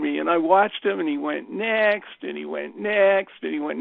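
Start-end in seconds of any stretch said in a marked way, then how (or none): 1.5-2.2 higher, taunting "next"; quick high-voiced jibe; mocking high voice. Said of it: "with this really high voice". 2.8-3.4 slightly raised, taunting "next"; brief mock-taunting jibe; mocking high voice. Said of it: "with this really high voice".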